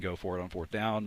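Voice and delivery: ordinary talk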